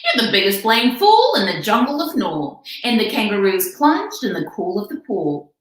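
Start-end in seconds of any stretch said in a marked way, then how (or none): 0.0-2.6 high little kangaroo voice; young kangaroo jeering. Acted. Joey in the pouch jeers at Horton, high cheeky voice. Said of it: "the young kangaroo in her pouch said".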